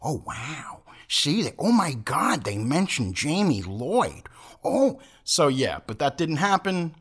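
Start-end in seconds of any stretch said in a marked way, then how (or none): 0.0-5.0 excited fan. Retold or imitated. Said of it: "We're like".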